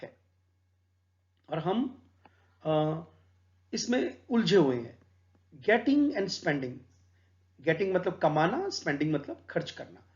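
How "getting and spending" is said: very slow, deliberate recitation; slow solemn poem reading. Acted. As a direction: savour each word of the verse. Reads the sonnet line.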